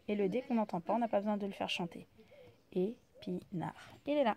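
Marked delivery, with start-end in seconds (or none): 2.7-3.7 Épinard dit lentement et doucement; slow blending. Shown as a demonstration. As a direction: assembler le mot lentement. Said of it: "Ça, c'est un peu dur à lire". (mot lu lentement)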